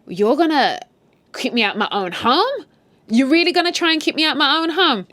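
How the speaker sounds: outraged, loud and high, barking back; indignant shout at being locked out; angry yelling. Retold or imitated. Husband yelling at his brother, loud and outraged.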